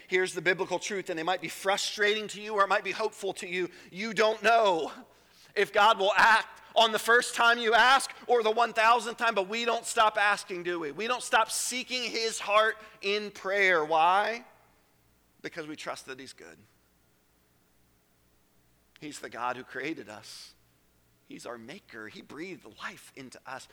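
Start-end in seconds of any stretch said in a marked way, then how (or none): 3.9-14.4 rising, louder preaching push; preacher building to a peak; building sermon. Real, not acted. 15.4-23.7 softly, reverent sermon hush. Real, not acted.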